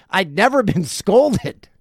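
slow, laughing disbelief. Real, not acted. Teller repeating it to the audience, slowly laughing. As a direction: laugh through the word scolded.

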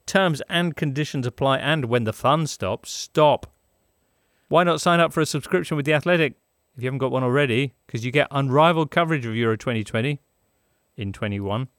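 brisk, upbeat sponsor read. Acted. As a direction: sell it like a radio ad. Reads the sponsor ad.

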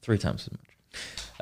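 hushed, slow, dramatic whisper. Acted. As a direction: whisper it slowly and drawn out. Whispered slow repeat of joke.

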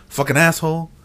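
lightly imitated thick Mexican accent. Mimicking the Mexican shopper's only English, in a mock Mexican accent. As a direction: swear with a hint of a Mexican accent. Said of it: "Thick ass accent?".

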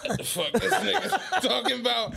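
confused question broken by laughter; laughing disbelief. Retold or imitated. Retelling his reaction to the money, laughing. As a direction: laugh through the baffled question. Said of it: "I'm like".

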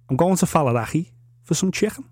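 exaggerated Scouse practice phrase; thick Scouse, throaty ch in chicken. Shown as a demonstration. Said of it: "you can speak anything in Scouse".

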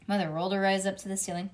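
ordinary delivery, nothing marked

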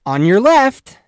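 high ding ding then loud call; mimicked bell and passing call; bike bell imitation. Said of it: "You'd hear, like".

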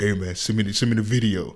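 a hint of his voice, casually done; Shaq. Friend quoting Shaq's message asking for the video, lightly imitated. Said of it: "You read it in his voice?".

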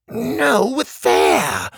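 high, loud scolding shout; exasperated yell. A narrator's reading. Cog girl scolding the boys' bad guesses, loud exasperated yell. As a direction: snap at them for getting it wrong.

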